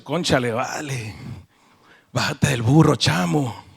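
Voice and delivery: casual Venezuelan slang, lightly voiced; Venezuelan accent. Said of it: "si Salomón hubiera sido venezolano".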